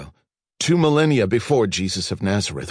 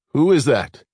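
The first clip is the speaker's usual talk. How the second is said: louder, higher startled demand; 7 semitones higher, 7 dB louder than usual. A narrator's reading. Archaeologist startled by a blinding light, alarmed question. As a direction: caught off guard, call it out.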